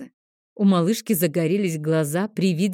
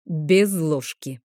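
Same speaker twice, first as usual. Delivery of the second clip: cutting retort; much slower than usual. Acted. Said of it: "внезапно отбрил Крокс".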